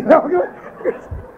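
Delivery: a short airy chuckle; brief amused laugh; light laugh. Real, not acted. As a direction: chuckle at the listener's worry. Laughs at imagined listener again.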